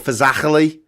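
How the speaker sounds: Scouse throaty ch in Fazachely; Scouse pronunciation of Fazachely; Scouse accent. Shown as a demonstration. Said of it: "best word to say in a Scouse accent".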